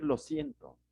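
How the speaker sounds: "lo siento" dropped low, a dutiful apology; a low, curt "lo siento" meant to end the matter; dismissive apology. Retold or imitated. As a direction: say "lo siento" low and short, as if it settles everything. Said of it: "no basta con decir".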